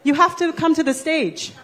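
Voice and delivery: calling to the crowd in a mock American accent; put-on US accent. Shown as a demonstration. Host calling a guest to the stage, in a put-on American accent. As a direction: try on an American accent while inviting them up. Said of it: "That's my best U S accent".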